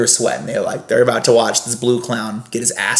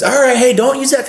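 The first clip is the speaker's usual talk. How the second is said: 12 semitones higher, 3 dB louder than usual. Retold or imitated. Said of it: "fake teeth in".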